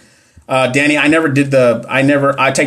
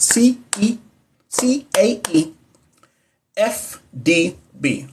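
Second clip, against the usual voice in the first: slow, softer whisper, each letter drawn out; hushed child-teaching voice; 6 semitones higher, 5 dB quieter, slower than usual. Shown as a demonstration. Repeating the answer for viewers like teaching her little son, hushed and slow. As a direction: whisper the letters slowly like a bedtime lesson. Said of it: "I feel like I would teach my son that".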